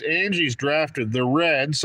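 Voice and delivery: Reds drawn out slowly and pressed; stress on Reds. Shown as a demonstration. Host stressing Angie's Reds pick to viewers, slow emphasis. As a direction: lean on the word Reds, slow. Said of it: "let me emphasize Reds".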